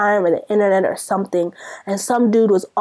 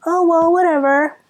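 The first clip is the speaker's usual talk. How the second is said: mock careless minister; 2 semitones higher than usual. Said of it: "and you're just like".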